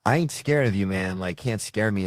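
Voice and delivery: put-on tough kid bravado. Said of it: "show up to this thing with attitude".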